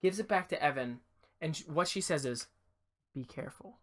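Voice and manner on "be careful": very soft, low Be careful; hushed warning. Acted. The silent old lady warning the boy, hushed and soft. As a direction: breathe the warning like a secret.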